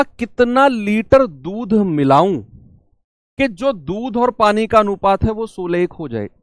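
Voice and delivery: slowed, carefully spaced question. Shown as a demonstration. Teacher re-reads question slowly.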